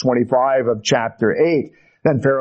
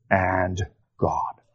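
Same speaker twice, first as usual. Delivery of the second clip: whisper; 8 semitones lower, 6 dB quieter than usual. Acted. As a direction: drop to a soft whisper on "and God". Solemn close of Jesus quote.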